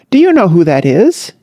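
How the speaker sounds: exclaiming. Acted. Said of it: "he exclaimed".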